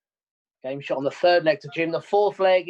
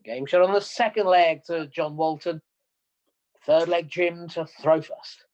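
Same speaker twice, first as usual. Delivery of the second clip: darts score caller. Real, not acted. Referee calling the darts match.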